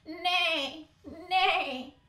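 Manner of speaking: high whinnied nay, nay; horse neighing. Acted. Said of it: "All she heard was".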